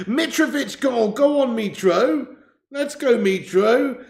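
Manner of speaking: high, drawn-out football cheer; celebratory cheer. Pretend. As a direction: stretch each name out like a fan cheering a goal. Cheering a Mitrovic goal.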